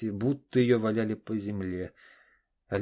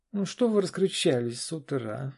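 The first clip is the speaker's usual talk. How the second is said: заспанная жена; 6 semitones higher, 3 dB louder than usual. Acted. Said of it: "заспанная Наташа".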